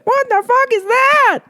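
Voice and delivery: high, slow horrified shriek; shocked shriek. Acted. Holly seeing a fish man at the window, horrified shriek. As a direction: shriek it in disbelief.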